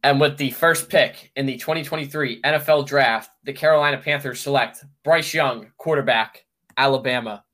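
Roger Goodell style pick announcement; formal commissioner announcing the pick; draft announcer. Retold or imitated. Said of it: "Let me hear it, Roger Goodell".

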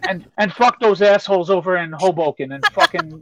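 a light Staten Island accent, cursing. Shown as a demonstration. Mocking Hoboken in a light Staten Island accent. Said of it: "talk like this".

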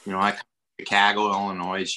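put-on Chicago accent; a hint of Illinois Midwest accent. Shown as a demonstration. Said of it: "Midwest here is sort of like".

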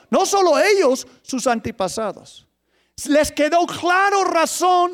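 forceful preaching. Real, not acted. Preacher telling how the people saw their misery, forceful proclamation. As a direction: drive each realization home.

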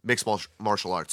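tripping over the words; words stuck on a clumsy tongue; tongue-tied stumble. Real, not acted. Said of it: "Sorry, I got a fat tongue".

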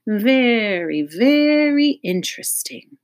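high, slow musing mutter; a curious doctor murmurs to himself; hammed-up pondering psychologist. Doctor muses again.

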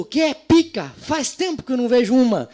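put-on high, sing-song old lady voice from the back row; grandma calling out. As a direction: call it out like a cheeky grandmother. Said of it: "Aí minha avó lá no fundo".

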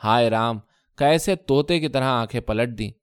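ہائے Ram flung out with sharp accusing edge; bitter cry, کیسے stressed and falling; accusing wail at her husband; sharp lament. Acted. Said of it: "تیز آواز میں بولی".

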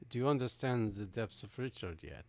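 hushed mysterious whisper; teasing whisper about his depths. Pretend. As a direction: whisper it like a secret. Mysterious aside.

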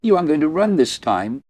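cold taunt. A narrator's reading. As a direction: taunt him from above, cold. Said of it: "her gaze still cold".

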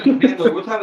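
high laughing question. Real, not acted. Player cracks up mid-question.

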